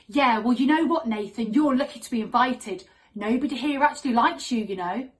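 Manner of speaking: mock telling-off, a little loud; scolding little sister. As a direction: put him in his place like a cross kid. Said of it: "She was very quick to remind him".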